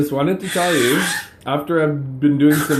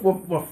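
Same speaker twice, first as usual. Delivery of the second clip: higher, softer little woofs; puppy woof; 4 semitones higher, 5 dB quieter than usual. Shown as a demonstration. Parent showing the puppy's bark to a child, gentle higher woofs. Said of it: "puppies go woof".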